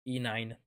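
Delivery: E nine as one name, "ee-NINE"; chosen pronunciation. Shown as a demonstration. Streamer announces how he will say the hero's name, chosen pronunciation. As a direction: say E nine like the letter E then the number nine. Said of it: "I will pronounce it as".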